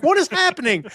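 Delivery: high, loud delighted disbelief; amazed excitement. Retold or imitated. Viewer reacting to a show's happy turn, amazed excitement. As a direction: exclaim it in giddy amazement.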